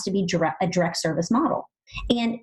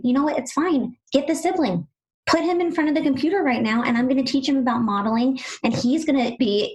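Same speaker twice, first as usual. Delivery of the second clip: higher, upbeat retold reassurance; acted reassurance; 5 semitones higher than usual. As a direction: brightly take charge for a stressed parent. Acts out reassuring overwhelmed parents.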